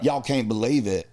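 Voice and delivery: put-on Southern twang on a kid's exclamation; thick Southern accent. Describing how he talked as a kid, thick Southern accent.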